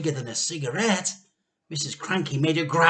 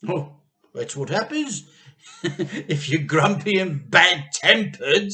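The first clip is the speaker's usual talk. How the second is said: smug laughing; 7 dB louder than usual. Acted. Husband amused, smug.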